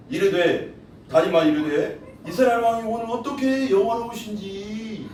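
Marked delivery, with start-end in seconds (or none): 2.3-5.1 mock-respectful sneer; sarcastic jab. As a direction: praise him while meaning the opposite. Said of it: "비아냥거리는 거야".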